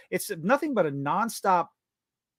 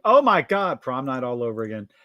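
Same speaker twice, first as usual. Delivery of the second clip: mock gush; 4 semitones lower, 4 dB louder than usual.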